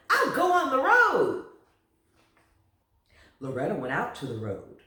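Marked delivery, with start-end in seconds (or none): 0.1-1.4 high, loud giggly promise; laughing. A narrator's reading. Loretta laughing, agreeing to ride the road. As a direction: laugh through the words up high. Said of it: "said Loretta".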